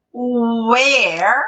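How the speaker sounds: WHERE said slowly with an open e; open vowel. Shown as a demonstration. Teacher contrasting two confusable words for students, open WHERE. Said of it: "que é aberto".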